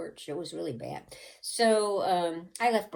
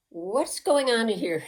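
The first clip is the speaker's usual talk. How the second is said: suspicious mother; 6 semitones higher, 6 dB louder than usual. Retold or imitated. Mother steps into doorway.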